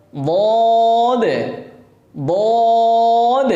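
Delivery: বদ held long as the Arabic dhāl, said after দাল; drawn বদ; dhal letter. Shown as a demonstration. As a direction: model বদ against দাল. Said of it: "দাল আর এটা হচ্ছে দদ".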